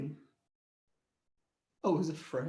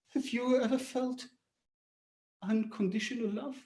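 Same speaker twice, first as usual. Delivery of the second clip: whispered; 6 dB quieter than usual. Retold or imitated. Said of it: "I whispered".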